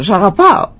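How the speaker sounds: lilting imitated echo; echo coming back. Mountains return the father's loving call, echoing. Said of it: "ξαναγύρισε η φωνή πίσω".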